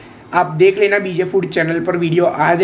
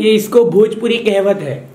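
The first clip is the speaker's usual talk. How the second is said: lightly imitated Bhojpuri; a touch of Bhojpuri lilt; mock Bhojpuri. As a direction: explain in pretend Bhojpuri. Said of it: "Hindi बोल रहा है कि भोजपुरी".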